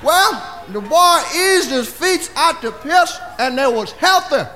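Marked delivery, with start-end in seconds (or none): none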